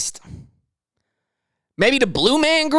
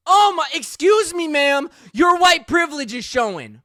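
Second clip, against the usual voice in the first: higher, exasperated sassy callout; indignant callout; 5 semitones higher than usual. Acted. Host scolding the Texas woman, sassy exasperated callout. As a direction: scold her with mock politeness.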